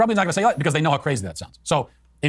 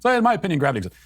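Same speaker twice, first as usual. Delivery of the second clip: mock hedge; 5 semitones higher, much faster than usual. Mocking a hedged answer.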